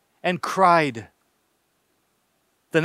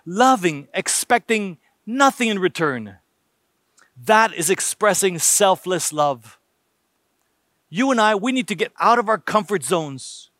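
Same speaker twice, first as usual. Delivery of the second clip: ordinary talk, nothing marked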